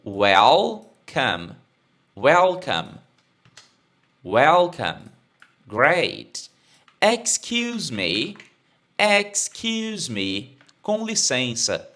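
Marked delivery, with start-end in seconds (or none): 0.0-5.1 "Welcome" said slowly and clearly for repeating; model pronunciation. Shown as a demonstration. Teacher saying "Welcome" for students to repeat. 7.0-10.6 slow teacher model of "Excuse me". Shown as a demonstration. Teacher modelling "Excuse me" very slowly for students.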